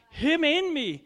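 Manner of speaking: loud, high cry of triumph; exclaimed. Real, not acted. Preacher to congregation, loud triumphant cry. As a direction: proclaim it with a swelling voice.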